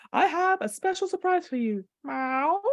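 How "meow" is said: cat meow. Acted. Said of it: "random animal sounds".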